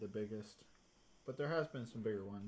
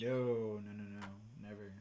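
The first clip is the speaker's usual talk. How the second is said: sarcastic. Real, not acted. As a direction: deny it with mock innocence. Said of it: "That sounded sarcastic".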